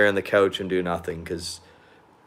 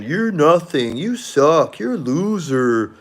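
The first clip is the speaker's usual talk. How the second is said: higher sneering taunt; mocking trolls; 5 semitones higher than usual. Trolls taunting him in comments, higher sneering mock voice. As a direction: jeer like an online troll. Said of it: "'Cause they keep saying".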